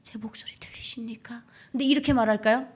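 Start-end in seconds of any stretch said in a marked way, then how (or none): 0.0-1.4 whispered plea, far softer; very quiet, halting whisper to God; secret hushed prayer. Shown as a demonstration. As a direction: pray under your breath in hiding. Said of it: "그분들은".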